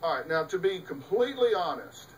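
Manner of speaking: plain. Retold or imitated. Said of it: "When somebody says".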